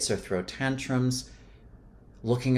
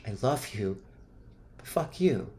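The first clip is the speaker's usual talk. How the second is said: fading anger. Shown as a demonstration. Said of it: "raise the frequency of the anger".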